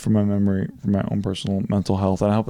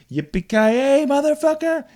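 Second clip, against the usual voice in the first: mock yell, pitched up high; catchphrase yell. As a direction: belt it out like a cheering fan at a game. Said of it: "he's like".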